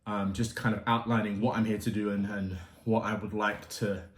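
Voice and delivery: out of breath after a workout. Real, not acted. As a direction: speak while still catching breath. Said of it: "I'm a little bit out of breath".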